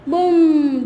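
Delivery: drawn-out, resonant "बूम"; long humming boom; firecracker boom imitation. Shown as a demonstration. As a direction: hold the word like an explosion. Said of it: "कैसा होता है बोलो".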